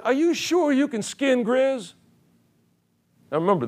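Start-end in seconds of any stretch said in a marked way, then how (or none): 0.0-1.9 higher, slow, drawn-out teasing mountain man. Retold or imitated. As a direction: slowly tease the cocky newcomer. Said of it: "He said".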